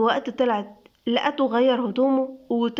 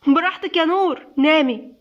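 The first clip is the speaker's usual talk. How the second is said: higher, louder angry yell; shouting; 4 semitones higher, 4 dB louder than usual. Acted. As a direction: shout it at her and storm off. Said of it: "سيف بزعيق". (بزعيق وغضب)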